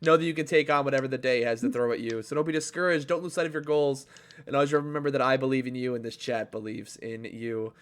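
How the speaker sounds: quick upbeat pep talk; rally the chat, brisk and kind; motivational sign-off. Acted.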